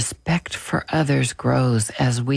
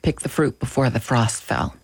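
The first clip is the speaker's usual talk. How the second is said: "Pick the fruit before the frost fell" rattled off a little quicker, as one run; quick tongue twister. Shown as a demonstration. Reader playfully testing a tricky phrase from the book, a bit quickly. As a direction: try the tongue-tripping phrase slightly faster, without a break before "fell". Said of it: "Try to say that really fast".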